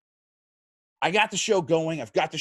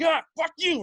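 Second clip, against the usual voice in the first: retold snap back; 14 semitones higher, 4 dB louder than usual. Bitten, lashing out at attacker.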